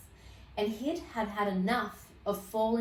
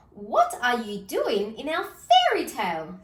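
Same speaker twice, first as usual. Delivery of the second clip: louder cross question; scowling Mummy Bear; 2 semitones higher, 6 dB louder than usual. Acted. Mummy Bear confronting the wolf, louder scowling voice. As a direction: scold like a cross mother bear. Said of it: "scowled Mummy Bear".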